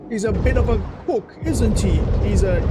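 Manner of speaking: hammed-up Aussie-Scots guard calling out; clumsy imitation of a Scottish or Australian accent; bad Scottish-Australian accent. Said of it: "Scottish or Australian or whatever accents".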